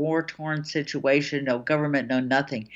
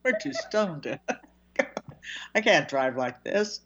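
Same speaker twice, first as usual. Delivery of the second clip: lightly voiced stoner, laughing through it; hint of a lazy stoned voice mocking pot states; mock stoned voter; 3 semitones lower than usual. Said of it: "they're all doing".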